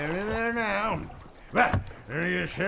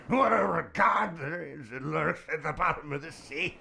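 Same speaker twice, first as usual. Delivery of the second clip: rising cry; 2 semitones lower than usual. Acted. Boatman ending the legend, crying out. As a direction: let it swell into a shout.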